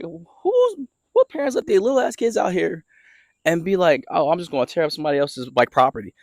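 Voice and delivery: high-pitched, incredulous griping; exasperated rant. Acted. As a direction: rant in disbelief, voice climbing high. Ranting at imagined careless parents.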